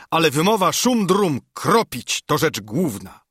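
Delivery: lightly voiced boastful brawler; a hint of swaggering bravado; mildly rousing boast; Kropiciel. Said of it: "krzyknął kropiciel".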